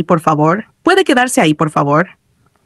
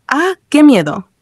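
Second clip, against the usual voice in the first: slow, higher-pitched mild fright; still scared; 7 semitones higher, slower than usual. A narrator's reading. Player still shaken by game, mildly scared. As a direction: draw it out with a touch of fear. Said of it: "seguía asustado".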